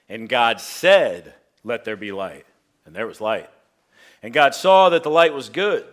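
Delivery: solemn scripture reading voice; booming biblical narration. Acted. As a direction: read Genesis aloud with gravity.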